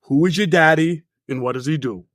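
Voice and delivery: thick Austrian action star accent; Arnold Schwarzenegger. Shown as a demonstration. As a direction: do a heavily accented movie strongman. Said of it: "is Arnold Schwarzenegger".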